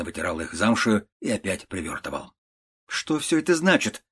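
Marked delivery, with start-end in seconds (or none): 2.9-4.0 exclaiming nephew. A narrator's reading. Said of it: "вскричал племянник".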